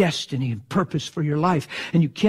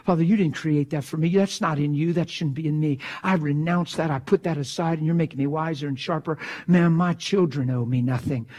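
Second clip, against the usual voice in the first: quiet prayer. Shown as a demonstration. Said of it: "I get frustrated".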